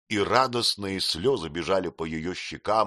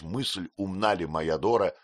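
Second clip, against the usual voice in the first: plain reading voice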